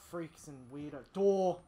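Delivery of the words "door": sudden loud shout; excited shout. Real, not acted. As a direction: blurt it out. Spotting a door while fleeing.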